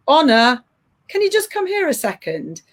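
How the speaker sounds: calm, even call up the stairs, no judgment; neutral calling tone. Shown as a demonstration. Mother calling her daughter Honor to pick up a towel, neutral and calm. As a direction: call her over with no edge at all. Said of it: "I say it in a really neutral voice".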